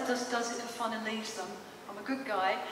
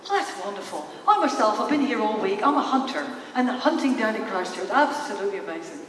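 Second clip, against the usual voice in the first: enthusiastic put-on Irish accent, a touch louder; 2 semitones lower, 5 dB louder than usual. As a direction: imitate a chatty Irishman boasting about his week. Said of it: "this lovely Irish guy".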